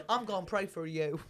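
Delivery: pious mock Texan, amused; Texan accent.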